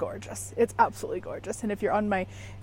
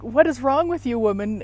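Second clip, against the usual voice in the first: a mock exasperated husband, a bit louder; imitating husband's exasperation; 3 semitones higher, 4 dB louder than usual. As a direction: lightly act out his "what is wrong with you". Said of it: "in his voice".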